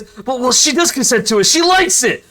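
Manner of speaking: blurted yell. Acted. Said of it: "He yells into the whole room".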